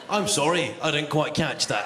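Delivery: lightly mimicked recorded apology; automated booking line. Booking line fails to understand the caller, mock automated apology. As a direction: imitate a phone robot's polite refusal. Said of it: "the automated cinema ticket booking line".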